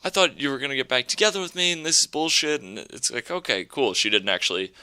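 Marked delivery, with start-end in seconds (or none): 0.0-2.6 high mock wail of hurt; hurt woman. Woman telling him she expected them back together, high mock wail. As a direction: whine it like a jilted lover. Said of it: "And she's saying".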